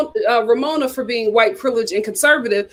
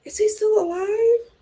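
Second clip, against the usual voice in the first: disbelieving; 9 semitones higher, 3 dB quieter than usual. Real, not acted. Disbelief at husband's age.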